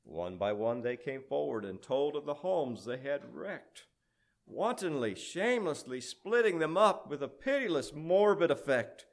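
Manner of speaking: grand storyteller, rolling with the meter; dramatic verse recitation. A narrator's reading. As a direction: recite it like an epic poem.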